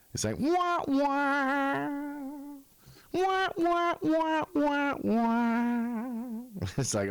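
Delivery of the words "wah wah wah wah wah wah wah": high, held wah-wah noise; mock sad trombone. Reacting to "still on the air?", mock sad trombone. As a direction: imitate a comic failure horn. Comic letdown sound after remark.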